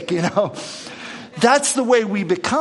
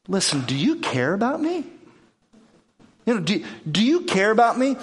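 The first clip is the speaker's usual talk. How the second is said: hurt plea; 4 semitones higher than usual. Retold or imitated. Martha pleading with Jesus.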